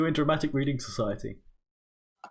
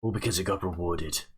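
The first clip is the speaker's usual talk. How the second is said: dramatic reading. Acted. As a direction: read it like a tragic monologue. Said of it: "That was beautiful".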